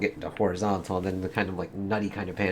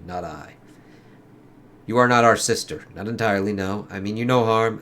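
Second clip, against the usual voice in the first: lightly acted comic dialogue, in character; comic characters voiced; 2 semitones higher, 3 dB louder than usual. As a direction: read it like a dramatic comic scene. Reads dialogue.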